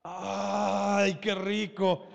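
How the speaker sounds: drawn-out relish over a scent; delighted savoring. Acted. Father smelling his child's worship, drawn-out delight. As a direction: savor it like a delicious aroma. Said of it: "¿cómo hueles?".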